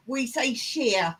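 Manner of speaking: Shire said as short sher, like Yorkshire; English shire. Shown as a demonstration. Teaching the American how English people say it, English shire. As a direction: Shire with a reduced unstressed shire ending, English style. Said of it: "Every time it's spelt Shire".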